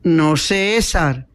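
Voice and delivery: slow, drawn-out reassurance; mildly shaken but composed; healthy but moved. Acted. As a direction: answer soundly, with a touch of emotion. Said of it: "con voz muy sana, aunque conmovida".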